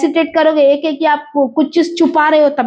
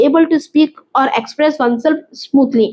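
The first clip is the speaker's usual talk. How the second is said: slow reading; much slower than usual. Shown as a demonstration. Teacher reads out the dictionary meaning.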